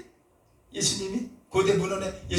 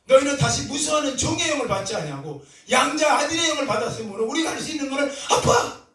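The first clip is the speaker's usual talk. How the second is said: fervent; 4 semitones higher than usual. Acted. Preacher recites scripture passionately.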